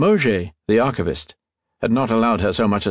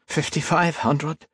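higher, slow pleading; 8 semitones higher, slower than usual. A narrator's reading. Archivist pleads with the buyer, higher and slow. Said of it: "Mauger pleaded".

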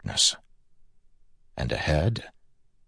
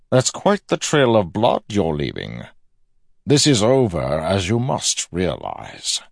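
raised, projected villain's voice; higher and louder, slowing at the end; calling out; 4 semitones higher, 3 dB louder than usual. A narrator's reading. Villain calls to his bleeding quarry, raised and assured.

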